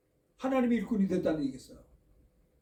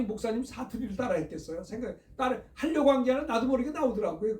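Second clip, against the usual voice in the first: usual speaking voice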